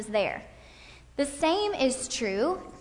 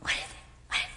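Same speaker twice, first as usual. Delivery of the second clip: eager; 7 dB quieter, much faster than usual. Shown as a demonstration. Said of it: "she was like".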